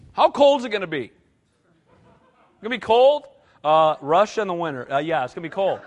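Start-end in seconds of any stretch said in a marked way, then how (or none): 0.1-3.3 louder, higher anxious questions; whiny fearful traveler. Retold or imitated. Nervous traveler asking the pastor about the cold, whining louder.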